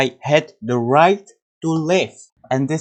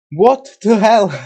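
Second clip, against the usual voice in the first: much higher, louder exclamation; happy disbelief; 8 semitones higher, 6 dB louder than usual. Real, not acted. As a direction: blurt it out in amazement. Reacting to the run.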